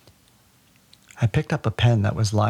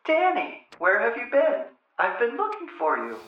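much higher hammed-up welcome back; mock relieved surprise; 13 semitones higher, 3 dB quieter than usual. Mother pretending her son just reappeared, much higher mock surprise. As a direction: greet him as if he just appeared.

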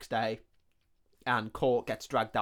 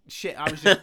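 sudden loud panicked cry, higher; panicked outburst; 6 semitones higher, 11 dB louder than usual. Retold or imitated. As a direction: blurt it out in a panic. Torture guy panicking at threat.

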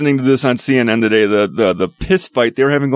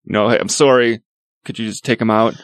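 polite request; 3 semitones lower than usual. Retold or imitated. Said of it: "been like".

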